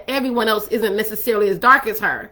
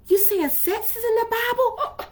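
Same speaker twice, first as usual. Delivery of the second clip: mock shocked question; 10 semitones higher, 6 dB quieter than usual. Voicing a shocked listener.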